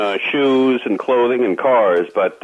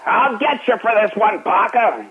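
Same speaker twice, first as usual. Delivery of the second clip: high, lightly voiced exasperated threat; a hint of a frazzled captain; sputtering foiled villain; 9 semitones higher than usual. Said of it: "he's doing the Joe Flynn character".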